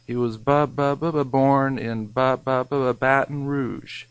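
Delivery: stuttering cab driver, slowed on the stuck words; repeated ba ba ba stammer; imitating a stutter. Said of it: "a stuttering cab driver".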